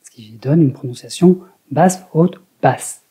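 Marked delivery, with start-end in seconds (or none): 1.7-3.0 "basse" low, "haute" up, "basse" back down; low-high-low pitch pattern. Shown as a demonstration. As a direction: recite "basse, haute, basse" up then sharply down. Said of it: "L'accent est en fin de mot".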